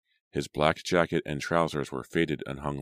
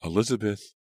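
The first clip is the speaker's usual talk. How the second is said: alarmed call; 6 semitones higher than usual. A narrator's reading. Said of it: "alarmed voices".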